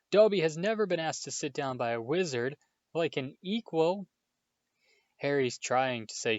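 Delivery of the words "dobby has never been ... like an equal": a touch of tearful elf. A narrator's reading. Dobby overcome.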